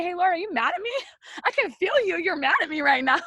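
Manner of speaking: high-pitched, overwrought cry to God; emotional prayer blurted out high; anguished plea. Acted. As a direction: plead with God, voice way up.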